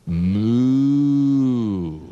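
hammed-up mooing cow; long cow moo. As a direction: moo like a big cow for kids. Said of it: "A cow".

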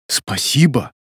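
understated, feeling thank-you; heartfelt thanks. A narrator's reading. Илья thanking his trusting friend, with feeling. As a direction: thank him as if it really matters. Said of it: "с чувством произнёс Илья".

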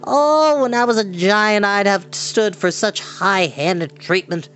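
high whiny litany of grievances; fearful little man complaining bitterly. Acted. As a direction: moan every burden aloud. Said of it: "complain bitterly".

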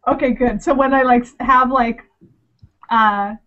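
talking with licorice in her mouth; chewing while talking; mouth full. Real, not acted. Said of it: "licorice and black spots of licorice in my mouth".

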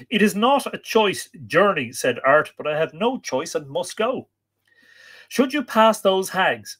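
emphatic, swelling storytelling delivery; dramatic story narration. A narrator's reading. Storyteller warning of a perilous journey, dramatic narration. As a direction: lean on the dark words, drawing some out.

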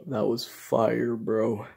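chewing while talking; words slightly muffled by food; mouth full. Real, not acted. Seen 0: Mouth moving with food inside just after eating from bowl.

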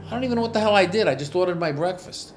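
exasperated disbelief. Real, not acted. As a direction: throw your hands up, baffled. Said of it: "exasperated retelling".

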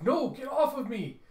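high, loud frantic yell; struggling scream. Acted. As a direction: fight free, shouting. Girl struggling against restraint.

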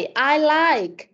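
"like" said clearly as lajk; careful pronunciation. Shown as a demonstration. Teacher correcting a pupil who keeps saying "em", careful pronunciation. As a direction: stretch out "like" with a clear diphthong. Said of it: "Từ này đọc là like".

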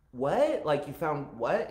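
acted puzzled double-take; baffled reply. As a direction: react in mock confusion with rising questions.

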